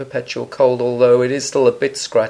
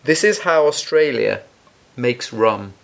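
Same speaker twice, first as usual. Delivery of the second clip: advert read. Acted. Reads out the rum's blurb.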